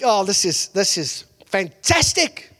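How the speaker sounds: hammed-up movie-hero thrill; excited. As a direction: draw out the delight slowly. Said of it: "he, he is excited".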